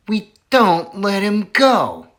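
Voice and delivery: whispered high villain voice; menacing whisper. Acted. Bean threatening about the fox, whispering. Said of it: "Bean said".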